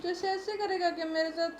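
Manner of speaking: tearful. Real, not acted. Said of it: "रो क्या रहे हो अब?".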